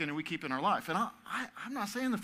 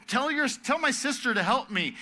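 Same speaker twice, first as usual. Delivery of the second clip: high, loud mock demand; imitating a bossy sister; upset Martha; 8 semitones higher, 4 dB louder than usual. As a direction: play bossy Martha, pitched up. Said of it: "she gets upset".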